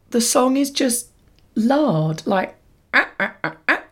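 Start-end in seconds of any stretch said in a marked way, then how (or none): 2.3-3.8 short imitated barks; barked singing. Shown as a demonstration. Showing how the closing song sounds, barked. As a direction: bark out the syllables one by one. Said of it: "is it barked?".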